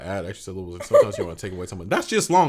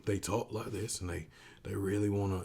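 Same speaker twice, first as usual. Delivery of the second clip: put-on Southern accent; 2 semitones lower, 9 dB quieter than usual. Shown as a demonstration. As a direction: ease into an imitated Southern accent. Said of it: "my Southern accent's gotten really good".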